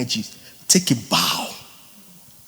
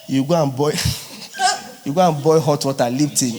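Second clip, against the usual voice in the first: laughing; 2 semitones lower, faster than usual. Real, not acted. Laughing at home remedies.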